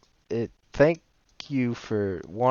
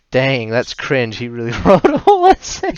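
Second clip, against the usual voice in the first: mock disgusted reader; 3 semitones higher, 9 dB louder than usual. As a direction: sneer it like a jaded critic. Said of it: "and we will say".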